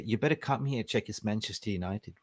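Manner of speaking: half-hearted mock whisper in the ear. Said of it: "there was whispering in his ear".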